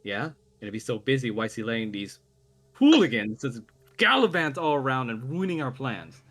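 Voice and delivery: exasperated villainess griping; dismissive. Acted. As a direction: wave it away, then vent about the hooligans. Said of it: "waves away his words".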